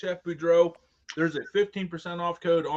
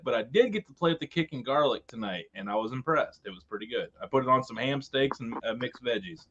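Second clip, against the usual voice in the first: muffled, like a hand over the mouth; 4 semitones lower, 7 dB quieter than usual. Real, not acted. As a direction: talk through a covered mic. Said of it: "you're kind of, uh, muff-, muffled there".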